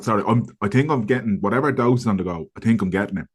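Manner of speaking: husky, sore-throat voice; hoarse voice with a cold. Real, not acted. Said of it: "You sound a bit sexy, a bit Michael Bublé".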